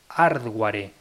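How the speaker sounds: "hardware" said with no H, spelling-style "ardware"; silent H hardware. Shown as a demonstration. Podcaster mocking Spaniards, "hardware" said without H. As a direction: drop the H of "hardware". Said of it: "dado que la H no se pronuncia".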